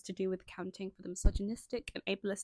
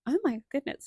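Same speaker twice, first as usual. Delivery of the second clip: surprised; 5 semitones higher, 6 dB louder than usual. Real, not acted. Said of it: "sorry, I'm reading this myself".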